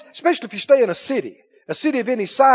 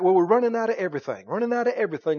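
mocking the devil's lie; 4 semitones lower, 5 dB quieter, much faster than usual. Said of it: "the devil tries to lie that".

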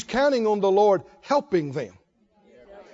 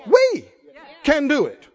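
shouted affirmation; 4 semitones higher, 4 dB louder than usual. Acted. Preacher's climax.

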